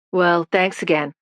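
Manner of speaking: put-on gravelly New York accent voice. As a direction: speak it as a gravelly New Yorker. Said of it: "in his gravelly New York accent".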